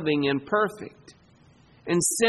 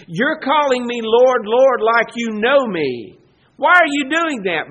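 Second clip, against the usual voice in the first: pointed rebuke; 4 semitones higher, 5 dB louder than usual. Retold or imitated. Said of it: "Jesus looks at the people and says".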